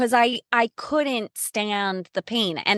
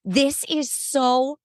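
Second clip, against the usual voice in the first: retold screaming; 3 semitones higher, slower than usual. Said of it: "literally screaming".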